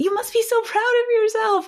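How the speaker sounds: very high-pitched voice. Showing how you might praise a child: really high voice. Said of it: "Did I have a really high voice and was I maybe jumping".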